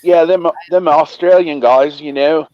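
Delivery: playful fake Australian voice; joking about Australians in a mock Aussie accent. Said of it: "put on the old American accent".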